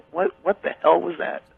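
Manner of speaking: usual speaking voice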